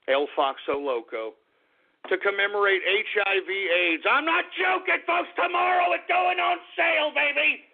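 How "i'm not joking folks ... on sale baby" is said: excited announcement. Real, not acted.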